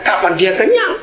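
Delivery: high laugh then laughing question; amused, laughing question. Real, not acted. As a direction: laugh through the punchline. Preacher laughing at own joke.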